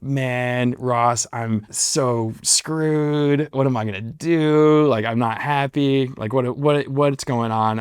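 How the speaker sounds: retold woe with drawn-out, rising words; mock-despairing moan over being stuck; distressed venting. Retelling his venting to best friend.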